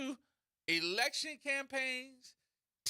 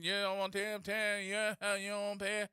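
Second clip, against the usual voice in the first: mumbled, rolling auction chant; auctioneer imitation. Comedian mocking the answer as a droning auctioneer chant. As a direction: slur the words into a bidding drone. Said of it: "auction again".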